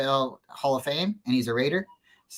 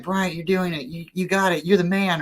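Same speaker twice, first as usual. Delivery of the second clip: coach encouraging; 5 semitones higher than usual. Retold or imitated. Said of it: "my coaches would be like".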